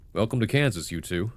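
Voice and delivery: lightly voiced southern welcome; slight southern accent. Farmer greets a visiting couple, slight southern accent. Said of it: "only a slight southern accent".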